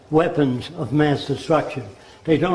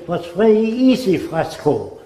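put-on German accent; 4 semitones higher than usual. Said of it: "that's the way he spoke".

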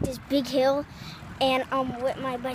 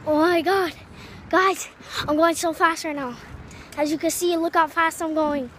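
excited; 4 semitones higher than usual. Real, not acted. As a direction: shout with the thrill of speed. Speeding downhill on bicycle.

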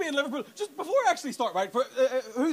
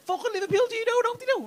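mocking Liverpool rant. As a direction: pile on the scorn like a bloke down the pub. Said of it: "people doing it to me".

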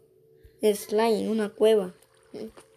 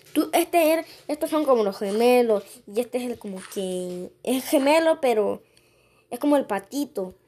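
louder, higher excited chatter; 3 semitones higher, 5 dB louder than usual. Real, not acted. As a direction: gush over the twins. Habla emocionado de los gemelos. (emoción entusiasta)

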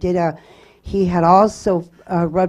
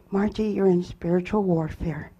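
softer, composed pastor's reply; calm pastor; 5 dB quieter than usual. Retold or imitated. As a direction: quote him calmly, lowering the volume. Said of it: "just so calmly said".

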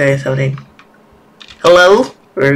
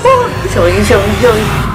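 startled and tense; alarmed; 5 semitones higher than usual. Real, not acted. Something moving in the game.

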